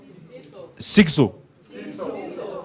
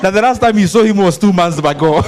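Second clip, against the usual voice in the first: laughing while talking; 3 semitones higher than usual. Real, not acted. Teasing about absent man, laughing.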